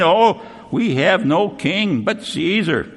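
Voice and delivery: slow, syrupy fake loyalty; sweetly hypocritical. Crowd sweetly feigning loyalty to Caesar, syrupy and slow. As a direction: lay the false piety on thick. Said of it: "now politically ... sweet and clean".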